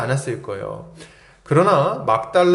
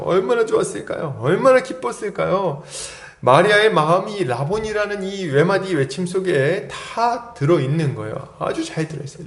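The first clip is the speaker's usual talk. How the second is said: ordinary talk, nothing marked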